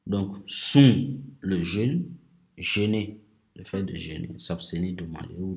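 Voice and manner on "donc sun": sun said loud with a nasal u; nasal vowel. Shown as a demonstration. Teacher introducing sun to learners, loud nasal vowel. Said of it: "la nasale un".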